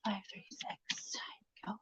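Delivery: slow whispered numbers; whispered code. Real, not acted. Streamer reading a login code to herself, slow whisper. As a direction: breathe the digits out slowly.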